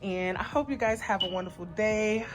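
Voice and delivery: a bit out of breath. Real, not acted. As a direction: talk while catching breath. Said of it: "I am so out of breath".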